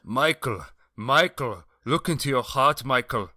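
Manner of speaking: high pleading voice; begging for his life. Retold or imitated. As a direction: plead desperately for mercy. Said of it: "watching him plead for his life".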